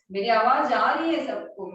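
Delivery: real loud call to the class; speaking up loudly. Real, not acted. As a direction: project it so the whole class hears. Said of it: "बहुत जोर से बोल रही हूँ".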